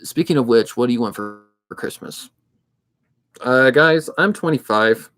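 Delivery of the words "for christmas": tiny high unvoiced squeak. Jokey high squeaky question.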